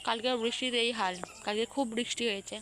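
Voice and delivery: talking with toothbrush in mouth; while brushing teeth. Real, not acted. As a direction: speak around a toothbrush. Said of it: "আমার গলার ভয়েসটা এরকম হয়েছে কারণ আমি ব্রাশ করছি".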